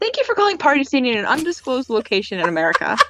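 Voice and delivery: scripted automated greeting, lightly put on; robot phone voice. Employee jokingly answering the phone, robot voice. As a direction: recite it like a phone recording. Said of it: "I would put on that voice".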